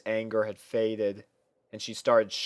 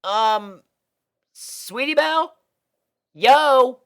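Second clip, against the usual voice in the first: loud high calls to snap her out of it; calling out; 13 semitones higher, 9 dB louder than usual. Acted. Scootaloo trying to wake a daydreaming friend, loud calls. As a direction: yell her name to get her attention.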